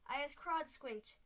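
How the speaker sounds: a tied giant yowling in rage; giant's yowl. A narrator's reading. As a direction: yowl it out like a furious cat. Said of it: "yowled the Blood Bottler".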